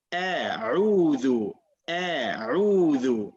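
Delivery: stretched-out A'udhu for a student to copy; careful Arabic articulation. Shown as a demonstration. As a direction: model A'udhu slowly, each throat letter distinct. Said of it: "you went all the way down here to pronounce".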